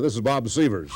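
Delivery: laughing through the punchline; cracking up while delivering the line. Retold or imitated. Retired announcer pranking a caller, laughing through the punchline.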